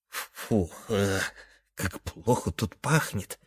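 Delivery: soft whispered disgust. Acted. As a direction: whisper it into an ear. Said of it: "прошептал Дрожащий Хвост на ухо".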